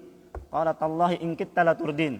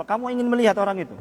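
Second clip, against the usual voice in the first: asking question; 5 semitones higher, 3 dB louder, faster than usual. Acted. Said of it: "Allah Subhanahu wa taala katakan apa".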